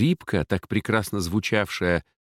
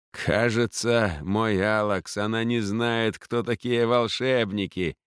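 mocking; 2 semitones higher than usual. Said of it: "насмешливо прокаркал ворон".

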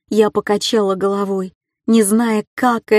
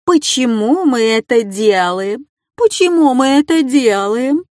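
rising, higher sing-song mockery; teasing chorus, pitched up; mocking echo; 4 semitones higher, 4 dB louder than usual. A narrator's reading. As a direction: parrot her words back to taunt her. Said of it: "вторили ему остальные".

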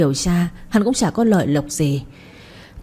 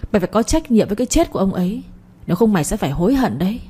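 mild angry accusation; faster than usual. Acted. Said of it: "Lập hầm hầm bước vào nhà".

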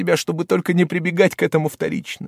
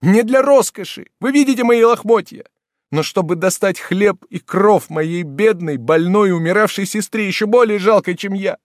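much higher and louder, desperate; frenzied, high and loud cry of despair; frantic outburst; 9 semitones higher, 5 dB louder than usual. Acted. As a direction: plead wildly to the whole room. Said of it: "в безумном порыве".

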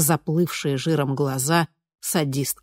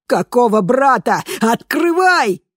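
much higher, louder scream, drawn out; 8 semitones higher, 7 dB louder, slower than usual. A narrator's reading. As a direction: demand to be let out. Screaming to be let out. (крик, гораздо выше и громче)

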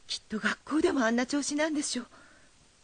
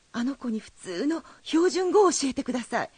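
pleading; 3 semitones higher, 5 dB louder than usual. Acted. Mother begging the teacher to teach her son standard Japanese. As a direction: press him hard, begging.

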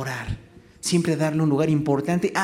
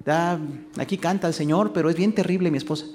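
complaining husband; 3 semitones higher than usual. Retold or imitated. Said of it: "hablando mal de su esposa".

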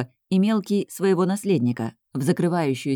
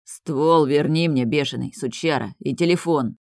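angry growl. Acted. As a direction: drag the words out like a threat. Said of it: "большой зарычал злобно".

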